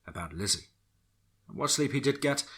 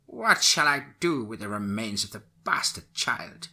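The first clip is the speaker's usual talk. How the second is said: put-on old witch voice; 2 semitones higher, 4 dB louder than usual. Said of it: "She responded".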